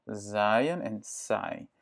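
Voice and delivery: zaaien said slowly with a buzzing z, then saai with a hissed s; teacher contrasts the two words slowly. Shown as a demonstration. Slow contrast model. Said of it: "ça vibre pas".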